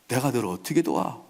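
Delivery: low-key scornful dismissal; understated mock-king contempt; sarcastic. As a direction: brush the beggar off. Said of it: "이러면서 빈정거립니다".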